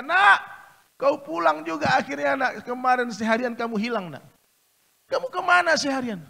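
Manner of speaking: loud, high, relieved mother; joyful mother. Acted. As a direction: greet the lost son with joy. Mother embraces her returned son.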